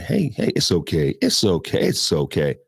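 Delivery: gentle reassurance in an even tone; calm, soothing. Shown as a demonstration. Handler approaching an animal, calm and soothing. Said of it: "approaching the animal in a calm, soothing way, the same tone".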